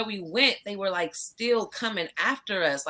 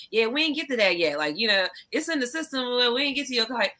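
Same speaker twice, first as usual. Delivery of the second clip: imitating staff; 5 semitones higher than usual. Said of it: "And they like".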